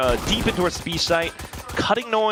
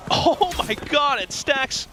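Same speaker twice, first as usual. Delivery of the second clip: excited; 6 semitones higher, slower than usual. Real, not acted. Caster sees a big play.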